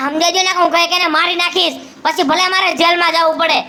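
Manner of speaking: threatening the wife in rage; angry threat. Acted. Husband threatens wife to mother. (ગુસ્સામાં ધમકી)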